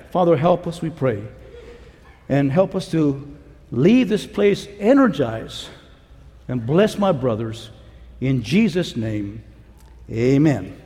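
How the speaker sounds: low, measured prayer; earnest, low-pitched benediction; closing prayer. Real, not acted. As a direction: pray over the brothers to close.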